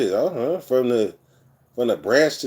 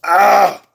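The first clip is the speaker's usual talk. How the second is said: real emotional outburst; 8 semitones higher, 7 dB louder than usual. Real, not acted. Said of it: "I'm about to cry".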